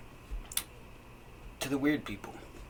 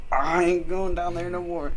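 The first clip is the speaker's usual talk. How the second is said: high-pitched, louder exclamation; emphatic retold refusal; 10 semitones higher, 6 dB louder than usual. Telling friend how they fled the basement, emphatic high refusal. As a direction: blurt it out high and loud. Acting out own scared refusal.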